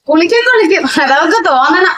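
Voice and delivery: high, scoffing retort; sarcastic jab. Acted. Mother-in-law scoffs at the question about her daughter-in-law's bath. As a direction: brush it off with scorn.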